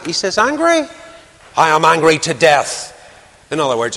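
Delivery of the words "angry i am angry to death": a prophet's outraged burst, pitched up; an offended Jonah snapping back at God, indignant. Acted.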